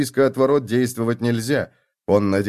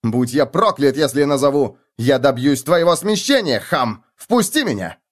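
lordly outrage; 4 semitones higher, 3 dB louder than usual. Acted. Fake lord berating guard.

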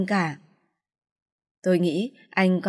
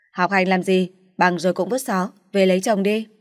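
dismissive; 4 dB louder than usual. Acted. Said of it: "chẹp miệng".

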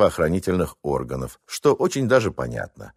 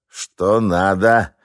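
slow, annoyed question; grudging gatekeeper; a hint of a surly gatekeeper; grumpy; much slower than usual. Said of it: "недовольным голосом осведомился".

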